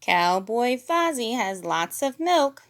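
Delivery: slow Kermit voice. A narrator's reading. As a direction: suggest it slowly. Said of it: "said Kermit".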